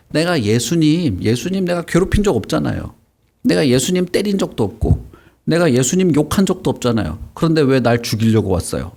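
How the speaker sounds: aggrieved protest. Acted. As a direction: act out a wronged devil protesting innocence. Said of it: "화를 내고 있는 거야".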